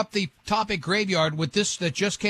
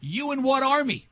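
scoffing tough guy; 6 semitones higher than usual. Retold or imitated. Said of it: "Number one is".

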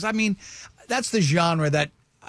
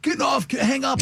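high, raised-voice retold command; imitated urgent order; 8 semitones higher than usual. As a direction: mimic a frantic sound guy cutting you off. Sound guy ordering hang-up, retold.

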